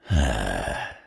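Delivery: short, contented sigh; lovestruck sigh. Acted. Overcome by love for a partner, lovestruck sigh. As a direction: let out a smitten breath.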